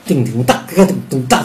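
vocalized drum-kit pattern; spoken drum hits with an accented crash; imitated rock beat. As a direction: mouth out a rock groove. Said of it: "那rock也是这样".

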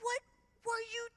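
appalled friend's whisper-shout; scandalized friend. Retold or imitated. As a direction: scold her in disbelief. Friend scolding her.

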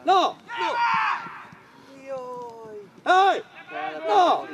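short, high, loud shouts; calling out. Real, not acted. Coach calls for players' attention, calling out. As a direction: yell to get their attention.

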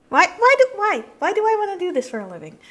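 high, loud, exasperated whine; exasperated outcry. Real, not acted. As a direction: cry out in frustration. Frustrated outburst about coding.

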